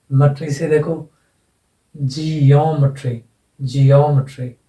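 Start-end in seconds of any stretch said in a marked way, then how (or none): 1.9-4.5 "जियोमेट्री" as jee-YOM-uh-tree, drawn out and falling; stress on O. Shown as a demonstration. Teacher models the suffix rule, stress on O. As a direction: hold and punch "यो" in "जियोमेट्री". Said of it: "इसमें यहाँ लग जाएगा".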